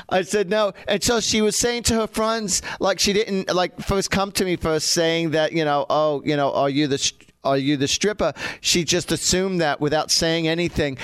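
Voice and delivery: relaxed anecdote in a put-on English accent. Shown as a demonstration. Host telling listeners about psychic work in an English accent. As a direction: tell it with a light British accent. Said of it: "when I start talking like this".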